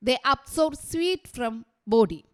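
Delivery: each word spaced out very slowly for writing down; teacher dictating at a crawl; slow dictation. Shown as a demonstration. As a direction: read it out slowly so the class can copy it. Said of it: "നിങ്ങൾ എഴുതിക്കോളുക കേട്ടോ".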